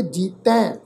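ਜੀਤੈ with a nasalised final ai; nasal pronunciation. Shown as a demonstration. Teacher showing how bindi is sounded, nasal ending on ਜੀਤੈ. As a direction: let the end of ਜੀਤੈ go through the nose. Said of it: "ਨਾਸਕੀ ਉਚਾਰਨ ਕਰਾਂਗੇ".

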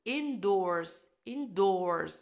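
indoors with doors stressed. Shown as a demonstration. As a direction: lean on doors. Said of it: "ال stress على doors".

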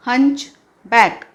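हंचबॅक said very slowly, syllable by syllable; slow clear pronunciation. Shown as a demonstration. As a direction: stretch out हंचबॅक for the class to copy. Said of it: "उच्चार इथे लिहिला आहे". (हंचबॅक अगदी सावकाश, स्पष्ट उच्चार)

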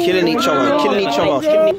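loud shout from the touchline; yelling from the sidelines. Real, not acted. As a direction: call it out across the pitch. Shouting about rough play.

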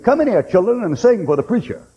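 put-on high call to the kids; calling children in. Mother calls her children.

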